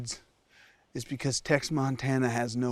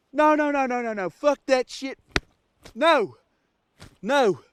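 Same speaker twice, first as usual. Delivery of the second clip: louder, higher frantic backtracking; panicked; 4 semitones higher, 4 dB louder than usual. Acted. Host retracting his confession to camera, panicked. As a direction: panic and take it all back.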